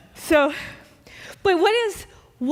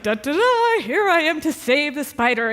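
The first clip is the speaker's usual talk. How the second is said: mock hero fanfare; 2 semitones higher than usual. Spider saver arriving to rescue, mock heroic fanfare. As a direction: announce yourself like a cartoon rescuer. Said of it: "expecting to be like".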